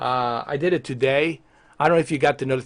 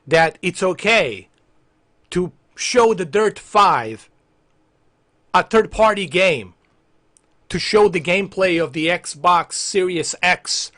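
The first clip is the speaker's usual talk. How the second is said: measured, emphatic chunks with pauses; deliberate reproach; 3 semitones higher than usual. Acted. Streamer lecturing Xbox boss, deliberate reproach. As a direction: lay out the complaint piece by piece.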